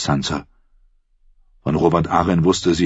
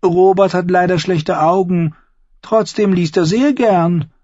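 high Lysa, slowing, intimate; confiding; 14 semitones higher, 5 dB louder than usual. A narrator's reading. Aunt Lysa confides to Sansa about her son, slow. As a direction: share it like a secret. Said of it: "vertraute ihr Lady Lysa an".

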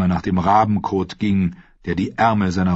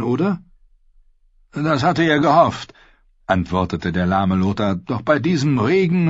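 polite lame knight; 5 semitones higher than usual. Acted. Lothar höflich im Dialog.

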